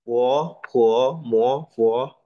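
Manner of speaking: "Po, po, mo, po" each swept upward; second tone. Shown as a demonstration. Teacher shows tone two after explaining, rising tone. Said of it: "Nadanya naik".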